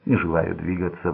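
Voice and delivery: ordinary delivery, nothing marked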